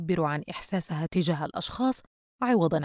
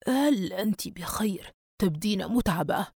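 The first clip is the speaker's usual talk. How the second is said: put-on concerned old man. Old man asks after tired girl.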